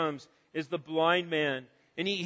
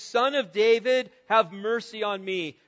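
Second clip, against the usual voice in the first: raised voice calling out for mercy; mild retold shout; 3 dB louder than usual. Preacher quoting the blind man's cry, mildly shouted. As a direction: cry out, a little louder and lifted. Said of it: "Scripture says that he shouts this".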